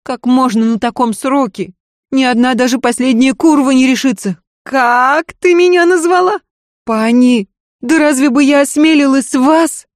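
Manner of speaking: a scared maid begging her lady to listen; frightened maid. Acted. Maid warns the lady it is too late, pleading.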